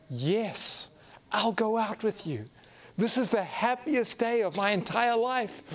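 mock a happy yes he doesn't mean; fake delight. To the farmer's daughter, a half-hearted fake joyful yes.

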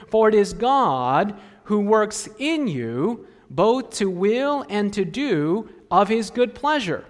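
slow, measured reading of the verse; scripture reading. Acted. Preacher reading scripture slowly to the church. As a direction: lay the verse out slowly for them.

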